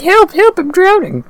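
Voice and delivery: loud panicked cry for help; drowning cry. Retold or imitated. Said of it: "But he's like".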